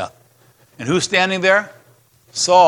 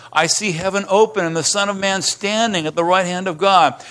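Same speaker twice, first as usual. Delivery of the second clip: higher, ringing proclamation of the vision; awed Stephen; 6 semitones higher than usual. Acted. Stephen tells the council what he sees, awed. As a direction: announce the vision with wonder.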